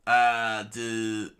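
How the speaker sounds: loud villain attack shout; screamed attack name. Acted. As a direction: yell out the move name. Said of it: "he screamed out".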